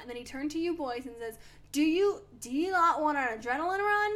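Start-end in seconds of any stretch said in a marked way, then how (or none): 1.7-4.1 loud mock Australian trainer; Australian accent. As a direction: dare them in an Aussie accent. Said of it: "He said it in an Australian accent".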